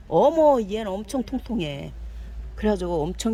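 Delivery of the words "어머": surprised gasp. Real, not acted. Gasping at a chubby plant.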